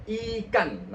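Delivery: "Ikan" with a long, clear I, teeth pressed; I ditekan. Shown as a demonstration. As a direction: articulate the I of "Ikan". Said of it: "giginya itu agak ditekan". ("Ikan" dengan I jelas)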